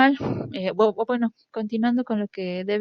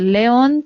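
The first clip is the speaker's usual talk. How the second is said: león said louder, leaning on the final ÓN and rising; stress final sound; 4 semitones higher, 6 dB louder than usual. Shown as a demonstration. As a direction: hit the end of león. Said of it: "Haciendo énfasis en la última".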